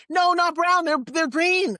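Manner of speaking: put-on high, loud child's protest; mock protesting shout. Ten-year-old arguing her eye colour with teacher, protesting shout.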